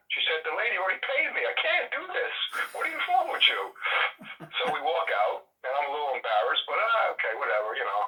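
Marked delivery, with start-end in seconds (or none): 0.4-3.6 much higher, indignant refusal; shocked shopkeeper squealing in disbelief; outraged shopkeeper. Retold or imitated. Exasperated shopkeeper refuses bribe.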